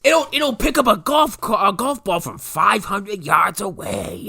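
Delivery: high, stretched huckster boast; hammed-up pitchman, drawing out the claim; mock sales pitch. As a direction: sell it big in a put-on high voice. Joins in acted sales pitch.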